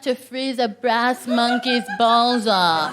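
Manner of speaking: slowed, savouring each word; slow careful repeat. Shown as a demonstration. Repeating the phrase back to the crowd, slow and amused. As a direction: repeat it slowly, tasting the phrase. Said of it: "repeats audience phrase".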